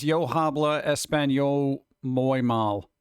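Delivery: slow, halting-learner Spanish; broken Spanish. Shown as a demonstration. Streamer showing off the only Spanish they know, in slow broken Spanish. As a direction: draw out each Spanish word slowly. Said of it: "my Spanish is broken".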